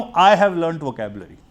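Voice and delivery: each word laid out slowly and clearly; slow model sentence. Shown as a demonstration. Teacher slowly showing the class the right sentence. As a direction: say it slowly, like a sentence for students to copy. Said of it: "जिस तरीके से मैं ये बोल सकता हूं".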